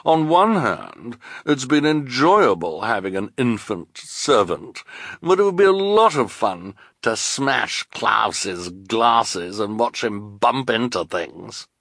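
high, slow, affected villainess; gleefully cruel villainess. Acted. Esme weighing which orphan to keep, gleefully cruel. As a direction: savor each cruel option.

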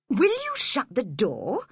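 cross. Acted. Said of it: "he said crossly".

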